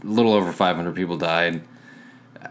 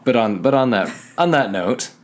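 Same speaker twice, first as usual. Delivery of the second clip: fake wrap-up; 3 semitones higher than usual. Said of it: "That was clearly fake".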